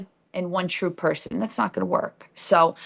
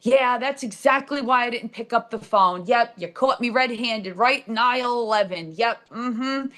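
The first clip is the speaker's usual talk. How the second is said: sarcastic; 3 semitones higher than usual. Retold or imitated. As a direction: play along sarcastically as if caught. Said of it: "And I'm like".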